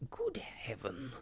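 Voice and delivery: slow, drawn-out astonishment; astonished exclamation. A narrator's reading. Mister Elton hearing of Miss Smith, astonished exclamation. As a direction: exclaim it slowly, in mild shock. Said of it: "cried Mister Elton".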